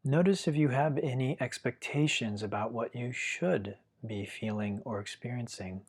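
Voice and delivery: calm, unhurried meditation guiding with long pauses; guided meditation. Real, not acted. Teacher guiding listeners to feel their breath, calm guided meditation. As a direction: gently lead the listener through following the breath, leaving long silences.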